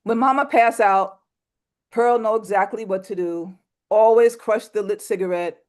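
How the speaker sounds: measured, sober storytelling read; poem reading. Acted. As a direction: read it steady and a bit somber. Reads poem When Mama Pass Out.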